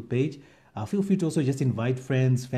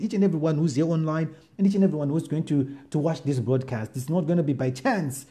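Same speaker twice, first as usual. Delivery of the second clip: rising, earnest pastor's prayer; fervent prayer; 3 semitones higher than usual. Acted. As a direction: pray it over the congregation with growing fervour. Pastor leads opening prayer.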